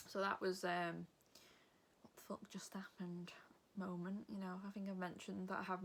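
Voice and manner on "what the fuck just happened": unvoiced whisper of disbelief. Recalling the embarrassing mix-up at the desk, whispered disbelief. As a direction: breathe it like a stunned aside.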